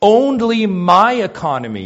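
a hint of a commanding God; "Only" high and strong, falling; voicing God. Preacher voicing Yahweh's claim, commanding. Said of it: "Yahweh says".

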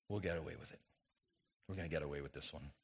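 a hushed, sly aside, quick; mock secret thought. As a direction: murmur it like a guilty secret. Voicing sinner's secret thought.

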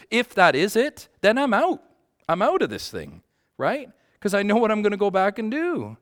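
high anguished cry of giving up; impassioned. Retold or imitated. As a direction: blurt it out like he's at the edge. Recounting darkest moment, impassioned.

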